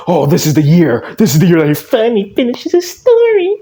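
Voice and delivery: hammed-up hopeful fan; mocking fans. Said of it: "his fans were like".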